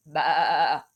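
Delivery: low bleating baa; sheep bleat. Acted. Teacher voicing a sheep for her class.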